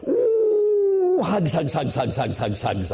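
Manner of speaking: very high cooing ooh falling into repeated hugs; baby-talk cooing. Retold or imitated. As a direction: coo at a toddler you're squeezing. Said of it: "I'd cling to her and go".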